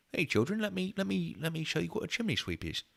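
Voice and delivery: high, hammy chimney-sweep voice; Dick Van Dyke. Pretend. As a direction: play to the children in mock Cockney. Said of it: "this is Dick Van Dyke".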